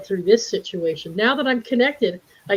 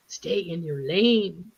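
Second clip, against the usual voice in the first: slow, understated stay in your lane; lightly imitated comeback; mild mock retort; 5 semitones lower, slower than usual. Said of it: "felt like turning around and saying".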